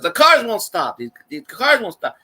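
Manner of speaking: put-on a rough try at the Cajun truck driver's accent; attempted Cajun accent. Retelling the Cajun trucker's complaint in a weak Cajun accent. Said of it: "I can't do his voice".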